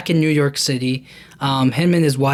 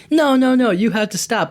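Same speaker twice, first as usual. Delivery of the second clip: urgent protest; 7 semitones higher than usual. Retold or imitated. Street guy urgently stopping McClane, raised and higher. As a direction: cut him off urgently, pitch jumping up.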